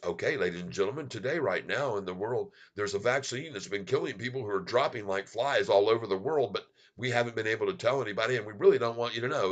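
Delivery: sarcastically ape a TV anchor; mock news anchor. Retelling Brand mocking the hosts, a fast mock newsreader. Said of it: "now he's gonna act like them".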